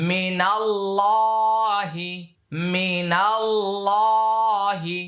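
মিনাল্লাহি with a thick full লা, slowly drawn; heavy lam in মিনাল্লাহি. Shown as a demonstration. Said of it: "লামকে মোটা করিয়া পড়িতে হয়". (মিনাল্লাহি মোটা লাম দিয়ে ধীরে)

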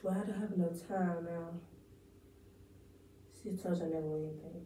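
lightly acted letdown; a winner realizing she won nothing; monologue take. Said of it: "Take one".

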